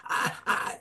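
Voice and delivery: put-on a frightened boy blurting out his fears quickly; agitated child. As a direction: rush it out like a panicking child. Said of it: "the son is getting more and more agitated".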